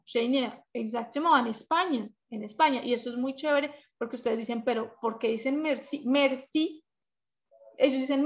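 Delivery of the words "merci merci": merci as MER-si; first-syllable stress. Shown as a demonstration. Teacher voicing students' question about Catalan, merci stressed on first syllable. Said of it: "como el acento en la primera sílaba".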